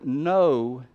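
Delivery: "no" given firm weight and volume; "no" as a stressed, standalone word; emphatic NO. Shown as a demonstration. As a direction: say "no" as if with an exclamation mark. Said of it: "put it with an exclamation mark because it's emphatic".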